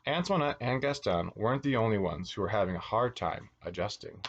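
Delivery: put-on lilting read-aloud for children; animated storyteller; picture-book narration. A narrator's reading. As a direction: read a storybook to little kids, stressing key words.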